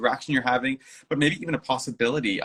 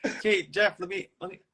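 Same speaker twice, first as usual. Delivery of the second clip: playful posing; 8 semitones higher than usual. Retold or imitated.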